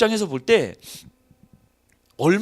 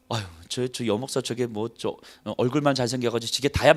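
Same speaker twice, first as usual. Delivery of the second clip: mocking gossip; 6 semitones lower than usual. Pastor voices critics mocking her.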